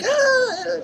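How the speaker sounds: imitated high squeal; retold high-pitched cry. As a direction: let out a high little mock cry. Retells the bear's high cry.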